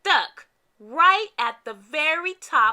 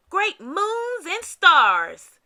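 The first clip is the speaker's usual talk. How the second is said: weary sigh; 5 semitones higher, 6 dB louder, much slower than usual. Acted. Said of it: "sighed Santa".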